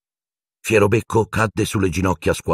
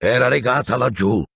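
higher-pitched angry executioner; furious; 6 semitones higher than usual. A narrator's reading. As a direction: protest furiously, pitch raised. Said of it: "disse il boia furibondo". (furibondo, voce alzata di tono)

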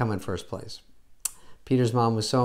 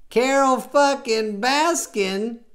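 high, slow, drawn-out disbelief; incredulous exclamation; 13 semitones higher, 4 dB louder, much slower than usual. Real, not acted. Comedian blurts the name out in stunned disbelief. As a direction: stretch the name out, floored by it.

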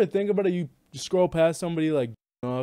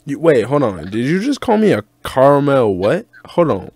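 loud indignant; 7 dB louder than usual. Real, not acted. Indignant at being insulted.

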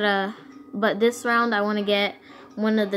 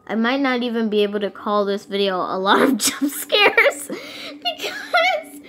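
high, laughing half-sob; laugh-crying; 4 semitones higher, 4 dB louder than usual. Real, not acted. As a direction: laugh through frustrated tears.

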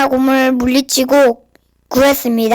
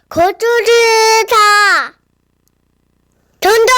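giant voice; 7 semitones higher, much slower than usual. Acted. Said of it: "골리앗의 울렁창 목소리가 또 들려왔어요".

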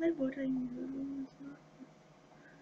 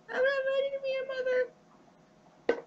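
mock dramatic; 13 semitones higher, 3 dB louder than usual. Joking about filter pregnancy.

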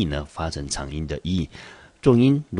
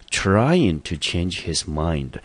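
slow phrase read; much slower than usual. Shown as a demonstration. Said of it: "teacher reads phrase slowly".

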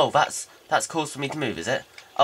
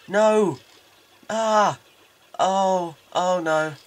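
panicked cry; 5 semitones higher, 5 dB louder, much slower than usual. Real, not acted. Player surrounded in battle.

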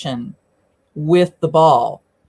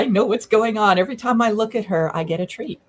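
voicing the dog; 6 semitones higher than usual. Commentator voicing the dog watching its trainer, high and eager. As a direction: speak as the happy dog, pleased with itself. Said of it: "The dog says".

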